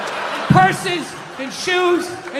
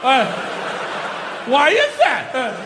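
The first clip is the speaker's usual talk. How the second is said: dumbfounded stammer. Retold or imitated. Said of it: "They had to sit there, like, dumbfounded".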